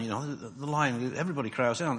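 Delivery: ordinary talk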